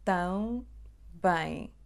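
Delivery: Tão and bem said apart as two syllables; syllables split. Shown as a demonstration. Teacher showing the two syllables of também. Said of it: "a palavra também tem duas sílabas".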